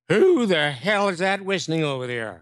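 yelling from across the hall; Ed Sullivan hollering at the whistler across the hall; retold shout. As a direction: bark it out, annoyed. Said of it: "I hear this from across the hall".

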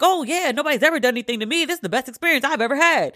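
fast, mock-gleeful chirp. Terry gushing on TV, fast mock-gleeful voice. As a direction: gush like everything's perfect. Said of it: "go all gleeful".

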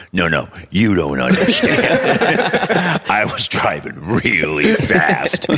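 slow, laughing really fast; laughing retelling. Retold or imitated. Speeder's excuse again.

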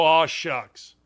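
a hint of a humble old coach; mock modest coach. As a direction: play humble like Izzo. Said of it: "he's gonna go".

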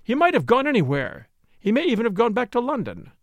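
high, defiant outburst; bursting out. A narrator's reading. Flora defending Ralph to the doctor, bursting out defiantly. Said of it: "she burst out".

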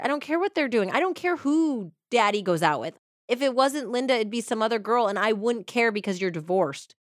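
imitating an upset kid, starting high and settling down; mildly acted child's protest; mad kid, retold. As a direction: retell a fed-up kid, pitch falling as it goes. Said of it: "he's, like, really, really mad".

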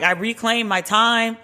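slow, deliberate congressman's put-on voice; drawn out like reclaiming the floor; imitating Richmond. Imitating the congressman reclaiming his time from a heckler, slow and deliberate. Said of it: "And Richmond was like".

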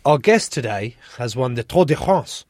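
put-on Tour de France with a French accent. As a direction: say the title the French way. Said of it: "do I say that in French accent or no?".

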